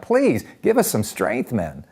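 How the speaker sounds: imitating women crying out; pleading. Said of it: "women are crying out".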